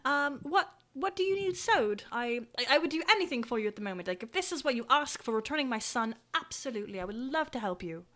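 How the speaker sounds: lightly voiced, eager parent; grateful parent character. Parent repays adventurer for returning son, eager to help. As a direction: offer help with understated earnestness.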